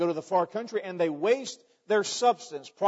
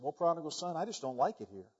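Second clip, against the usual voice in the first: mildly sad pig; 2 semitones lower, 6 dB quieter than usual. Acted. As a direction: lightly voice a glum little pig. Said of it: "The little pig is sad".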